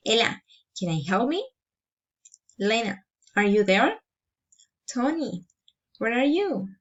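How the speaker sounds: name first, then question lifting on "me" and "there"; rising intonation. Shown as a demonstration. Teacher models direct address, rising intonation after names like "Ella". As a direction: call "Lena", then lift "are you there". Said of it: "Rising intonation".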